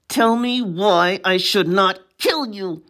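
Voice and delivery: mild menace pushed through clenched teeth; through her teeth. Acted. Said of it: "Pepper asked through her teeth".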